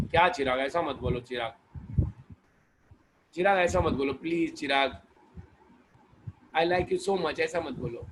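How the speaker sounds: playful hammed-up pleading; mock pleading. Teacher pleads with student Chirag, mock wounded. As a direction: coax him to take it back.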